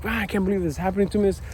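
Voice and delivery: lightly acted grumpy rant; grumpy complaining. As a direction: imitate yourself griping about everything. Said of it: "be grumpy and like".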